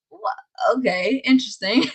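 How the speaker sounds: high, puzzled "wha- okay"; baffled surprise. Retold or imitated. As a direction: react like you just heard something odd. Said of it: "I never heard anyone say that".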